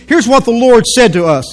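ordinary talk, nothing marked

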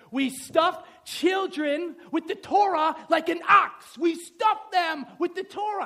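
loud, high, slow declaiming; booming quoted saying, drawn out; emphatic proclamation. Acted. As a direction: hammer out each phrase forcefully. Declaims an old rabbinical saying.

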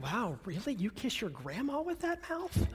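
mock shocked, through a laugh; laughing mock outrage; laughing mock reply. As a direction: tease a joker while laughing. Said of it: "you've just told a dirty joke".

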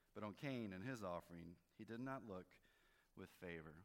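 measured Bible reading, lightly lifted; scripture reading. Acted. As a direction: read the verses out to the congregation. Reads scripture aloud.

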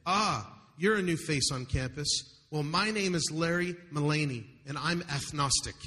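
a faint lisp, lightly put on; barely-there lisp, mostly own voice; lisping student. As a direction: read the student's words with a hint of a lisp. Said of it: "his lisp evident".

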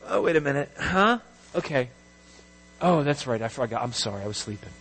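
hammed-up groggy apology; mock sleepy God. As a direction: trail down like someone half awake. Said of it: "God is aside sleeping somewhere".

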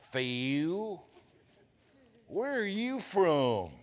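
slow Southern drawl, the name stretched long; mock-imitating wife's drawl; three-syllable Phil. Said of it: "never heard my name with three syllables".

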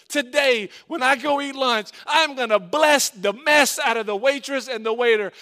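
forceful, driving sermon delivery; impassioned preaching. Acted. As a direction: hammer out each pledge like a rallying preacher.

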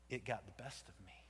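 hushed, unvoiced confession; whispered admission. Jonah admitting defeat in a whisper. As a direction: breathe it out in shame.

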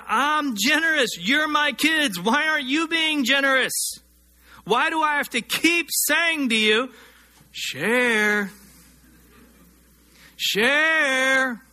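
put-on a parent repeating himself to the kids; voicing God. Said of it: "God's saying".

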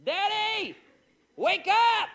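put-on high child's call to wake dad; a little boy yelling wake up; imitating little son. Small son calling his dad awake, high and loud. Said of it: "He just goes".

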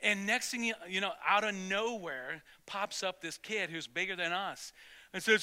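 usual speaking voice

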